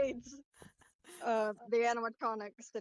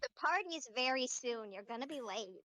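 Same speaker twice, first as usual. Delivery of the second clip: lightly voiced robot child; childish robotic voice. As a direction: nag lightly as a little robot. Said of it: "a very childish robotic voice".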